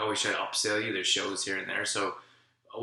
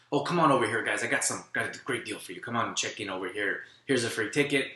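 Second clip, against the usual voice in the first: pushy fast saleslady. Retold or imitated. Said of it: "she's literally talking faster than you can listen".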